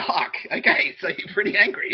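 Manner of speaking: mock dismay; mock surprise. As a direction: voice the other side, surprised. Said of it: "they're like".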